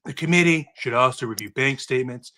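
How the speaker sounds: a hint of Trump ad-libbing insults into the report; Trump impression. Cohost reads the report recommendations as Trump, with only a light impression. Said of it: "Do I wanna attempt Trump voice?".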